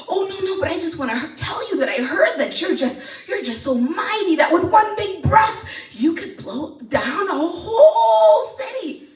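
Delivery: high, flattering princess voice; butter him up sweetly; a princess flattering the dragon; sweet-talking princess. Acted.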